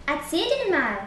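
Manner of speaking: mock parroting of the friend's advice; mocking imitation. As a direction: repeat "Erzähl denen mal" with a sneering lilt. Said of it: "äffte Willi nach". (spöttisch nachgeäfft)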